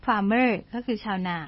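ordinary talk

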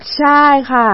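slow, sleepy slur, lightly imitated; groggy slurred voice. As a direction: drag it out like just woken. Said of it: "เสียงมันแบบว่างัวเงียอ้อแอ".

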